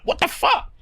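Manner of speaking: high, breathy gasp of shock; shocked disbelief. Retold or imitated. Viewer reacting to Donna's death.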